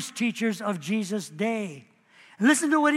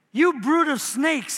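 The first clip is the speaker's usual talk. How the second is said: pitched up on You brood of snakes; higher exclaimed rebuke; 4 semitones higher than usual. Acted. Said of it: "he excla-, exclaimed".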